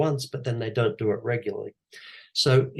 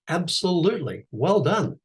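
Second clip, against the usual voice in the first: higher, bright encouraging praise; pitched-up warm pep talk; upbeat praise; 7 semitones higher than usual. Shown as a demonstration. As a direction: cheer them on like a proud coach. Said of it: "flip that on its head and say".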